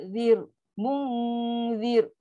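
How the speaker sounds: "Zir" ending in a small trill of r; long hum in "Munzir", light vibrating final r; trilled thin ra. Shown as a demonstration. Teacher shows the vibration of ra, small trill. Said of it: "Dia getaran ra tu".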